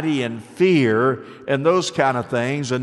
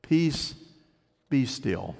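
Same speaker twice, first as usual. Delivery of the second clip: hushed command; 5 dB quieter, slower than usual. Acted. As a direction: speak peace over the storm gently.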